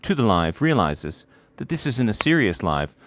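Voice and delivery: muffled voice inside a bucket; bucket on head. Real, not acted. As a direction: talk with a bucket over your head. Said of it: "Why do you have a bucket on your head?".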